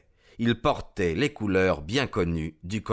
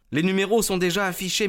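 higher, fast excited call; excited cry; 10 semitones higher, faster than usual. A narrator's reading. Narrator at the races, calling out excitedly. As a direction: blurt it out eagerly. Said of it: "m'écriai-je".

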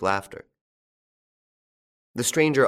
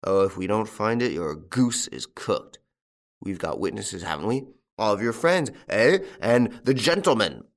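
angry threat; 4 dB louder than usual. Acted. Farmer threatening.

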